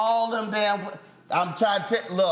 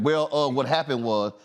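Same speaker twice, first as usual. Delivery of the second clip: teasing imitation of a stumbling start; mock stammer; 6 semitones lower than usual. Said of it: "when he started stuttering".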